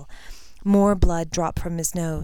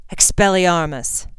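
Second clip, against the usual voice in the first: firm, slow called-out spell; spell cry; 5 dB louder than usual. Acted. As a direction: call it out from the doorway. Unexpected rescuer casts spell.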